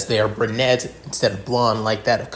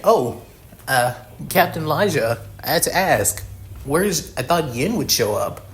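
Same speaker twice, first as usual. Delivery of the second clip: put-on girl voice; 4 semitones higher than usual. Sarah voiced, higher.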